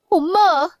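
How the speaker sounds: high, loud cry of Mom; calling out. Acted. Daughter at hospital calls her dying mother, loud cry.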